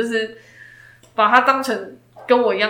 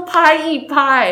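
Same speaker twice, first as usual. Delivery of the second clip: slow mock baby talk; 4 semitones higher, 4 dB louder, much slower than usual. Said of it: "拍拍拍拍啊".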